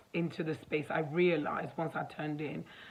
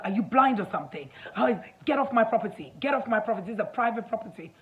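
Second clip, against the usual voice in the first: louder, higher retold rant; mock angry screaming; 4 semitones higher, 5 dB louder, faster than usual. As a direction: imitate an irate man ordering someone off, fast. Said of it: "he just started screaming at me".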